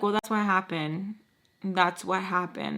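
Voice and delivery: measured, even retold explanation; calm. Daughter explaining to angry father on a call, calm. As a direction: keep it calm and controlled. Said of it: "trying to talk to him calmly".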